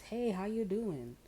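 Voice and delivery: high, slow, loud sing-song hello; a hammed-up nosy friend greeting. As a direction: chirp it out slowly, overly friendly. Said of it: "You're taking a test".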